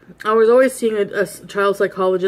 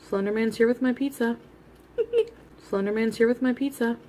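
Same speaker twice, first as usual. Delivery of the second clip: laughing; 4 semitones higher, 5 dB quieter than usual. Real, not acted. Repeats it laughing.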